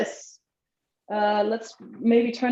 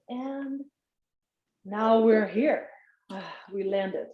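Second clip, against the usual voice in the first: guided relaxation. Acted. Leads a body relaxation.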